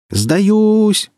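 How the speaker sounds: high panicked yell; screaming surrender. Acted. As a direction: shriek it at the top of the lungs. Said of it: "орала голова благим матом".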